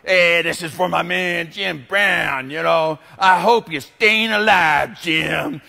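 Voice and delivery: a slow, lightly voiced smooth late-night DJ; radio DJ. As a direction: croon the dedication like a radio host, drawn out. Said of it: "Ugly Jock would come on".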